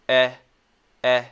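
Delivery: "Eh" relaxed and isolated; a brief, loose "Eh"; short E sound. Shown as a demonstration. Teacher showing pretty relaxed E sound, isolated "Eh". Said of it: "when we say the E sound".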